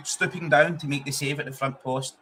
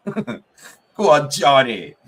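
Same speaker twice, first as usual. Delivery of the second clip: louder shout of praise for the scorer; loud cheer; 8 dB louder, much slower than usual. Real, not acted. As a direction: roar him on. Cheering the goalscorer.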